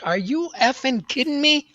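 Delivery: high, incredulous blurt of disbelief; stunned outburst. Retold or imitated. Standing up in the ballroom, to the speaker: high shocked outburst.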